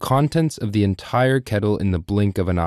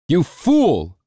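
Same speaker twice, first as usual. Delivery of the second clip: higher, louder furious shout; angry yell; 8 semitones higher, 4 dB louder than usual. Acted. Lord yells at the cook, loud and furious. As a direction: bark at the servant in rage. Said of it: "yelled the lord".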